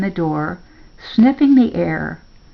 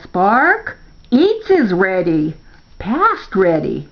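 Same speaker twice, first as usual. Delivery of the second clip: calling out; 3 dB louder, slower than usual. A narrator's reading. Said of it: "Grandpa calls".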